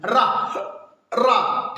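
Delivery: "रा" said alone with the tongue curling; tongue-curled sound demo. Shown as a demonstration. Teacher shows students how "रा" is formed, tongue-curled demo. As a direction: demonstrate "रा" as an isolated syllable, tongue turned. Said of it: "मुड़ जाती है।".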